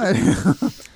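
hammed-up villain cackle; evil laugh. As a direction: laugh again like a baddie. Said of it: "esa risa malvada".

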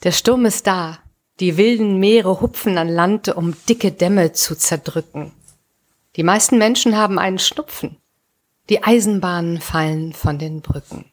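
measured reading, a pause after each verse; poem recitation. Acted. Podcast host opening the episode with a storm poem, measured recitation. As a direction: recite it line by line, letting each image stand.

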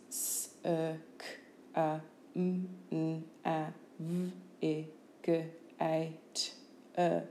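S-E-K-A-M-N-A-V-I-G-A-T-E as slow separate phonemes; sound by sound. Shown as a demonstration. Teacher showing phonemes, S-E-K-A-M-N-A-V-I-G-A-T-E sound by sound. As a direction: sound out S-E-K-A-M-N-A-V-I-G-A-T-E with gaps.

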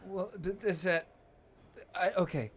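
put-on hiccuping drunk, slurring a little; drunk with hiccups. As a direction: play it tipsy, hiccups breaking words. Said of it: "No, I'm hiccuping 'cause I'm drunk".

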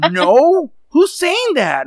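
high, loud, shocked "who's saying that"; the wife, hearing the rumor, answers in high shocked disbelief; shocked denial. Retold or imitated. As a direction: play the wife caught off guard by a rumor. Wife's shocked denial, retold.

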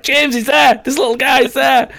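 high, loud excited shout; excited alert. Retold or imitated. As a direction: call a teammate's attention urgently. Acting out alerting a teammate.

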